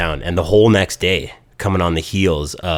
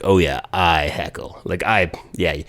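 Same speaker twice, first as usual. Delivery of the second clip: smug. Retold or imitated. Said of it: "smug grin is like".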